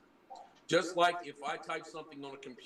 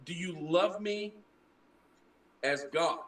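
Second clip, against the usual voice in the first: LOVE raised high, then a pause before "as God"; pointed re-reading; 4 semitones higher than usual. Shown as a demonstration. Explaining what the scripture really says, pointedly spaced out. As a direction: set "as God" apart after a long pause. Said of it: "It's saying".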